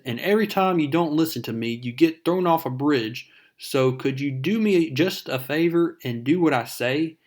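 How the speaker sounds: mild retold yell. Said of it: "he s-, yells at Mary Jane".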